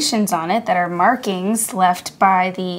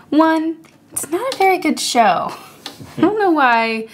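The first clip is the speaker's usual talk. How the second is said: whispered aside, a bit higher; whispering; 7 semitones higher than usual. Real, not acted. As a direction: let it slip in a whisper. Whispered confession about show.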